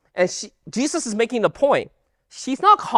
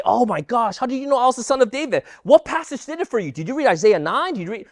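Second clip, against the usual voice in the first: quick, higher-pitched eager questioning; mock amazement; 4 semitones higher than usual. Preacher imagines Jesus questioning the Canaanite woman, mock amazement. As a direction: play up mild astonished curiosity. Acting out an astonished reaction Jesus avoids.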